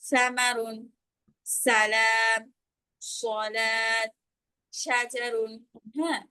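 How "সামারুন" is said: সামারুন with a soft, thin th at the start, tongue tip at the teeth; soft tha sound. Shown as a demonstration. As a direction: breathe the first letter of সামারুন out lightly like English th. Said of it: "প্রথমটা আমি একবারে নরম ভাবে করেছি". (সামারুন নরম ও পাতলা উচ্চারণে, জিহ্বার আগা দাঁতে লাগিয়ে)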